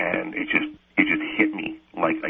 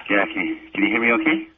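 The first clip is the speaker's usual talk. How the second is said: echoey; faster than usual. Real, not acted. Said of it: "You sound a little echoey".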